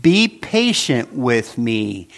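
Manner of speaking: "Be patient with me" read slowly, each word set apart for the listeners to notice; slow deliberate reading. Shown as a demonstration. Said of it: "I want you to notice the exact words".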